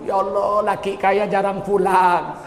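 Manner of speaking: slow, stretched mock lament; mock complaining. Preacher mimicking a wife moaning about her husband, mock complaint. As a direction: drag it out like a grumbling wife. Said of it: "Lakimu kaya kau ngeluh".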